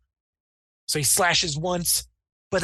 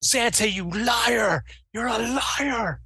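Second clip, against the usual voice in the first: angry yell; 5 semitones higher than usual. Acted. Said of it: "he's like".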